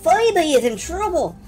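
high, worried and urgent; pleading woman. Acted. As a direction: beg for help anxiously.

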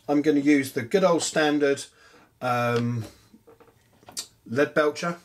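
talking while chewing peanuts; words round a mouthful of peanuts; mouth full. Real, not acted. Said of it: "Sorry, if I'm chewing in the background".

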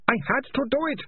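high, pleading moan; pitiful high-pitched protest. A narrator's reading. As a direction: whine it out as a desperate confession. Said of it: "Ratcatcher Two moaned".

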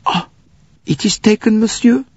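put-on high-pitched accented official; apologetic conductor. A narrator's reading. Conductor says the berth is taken, high and apologetic. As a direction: break it helplessly in a high voice. Conductor breaks bad news to Bouc.

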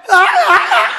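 high, loud choked scream; a scream that can't get past a stiff mouth; wife too scared to speak, crying out; terrified strangled cry. Retold or imitated. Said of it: "sợ ma quá, cái miệng cứng ngắc".

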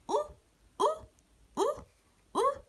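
rounded أو repeated clearly; sounding out damma. Shown as a demonstration. Teacher showing pupils hamza with damma, sounding out أو. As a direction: model أو with rounded lips, one at a time. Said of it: "هنا".

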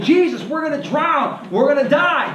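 high-pitched mock panic; panicked disciples. Pastor voicing panicked disciples in the storm, mock panic. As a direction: cry out like you're sinking. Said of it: "All the disciples are freaking out".

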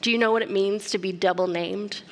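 ordinary talk

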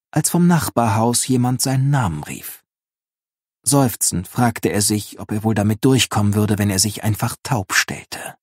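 measured audiobook narrator; story narration. A narrator's reading. Narrator setting up Linus's encounter with his neighbour, storytelling tone. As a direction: read it out as a storyteller. Reads book excerpt aloud.

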